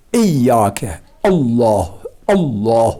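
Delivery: low, firm glottal onset on "ایاک" and "اللہ"; clear hamza. Shown as a demonstration. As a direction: lean on the doubled consonant in "ایاک" and "اللہ". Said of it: "اس کی آواز نکلتی ہے بہت صحیح".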